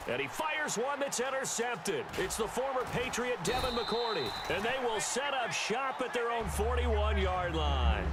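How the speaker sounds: rising excited call. Real, not acted. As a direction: lift the voice for the big interception. Interception call in play-by-play.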